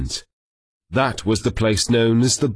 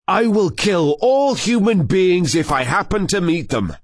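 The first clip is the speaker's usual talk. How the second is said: booming warrior king; 6 semitones higher than usual. A narrator's reading. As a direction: roar it like an angry lion king. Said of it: "the king roared again".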